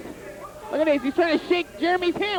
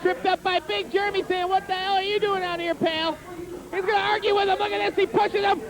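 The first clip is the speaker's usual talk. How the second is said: hyped ringside play-by-play; wrestling commentator; 3 semitones higher than usual. Pretend. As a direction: shout the action like a TV announcer.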